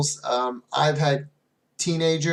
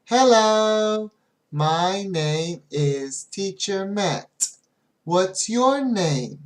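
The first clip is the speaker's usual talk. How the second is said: teacher greeting; 5 semitones higher, much slower than usual. Shown as a demonstration. Teacher greeting a new young student, slow and bright. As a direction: greet the class slowly and cheerfully. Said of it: "I always start with".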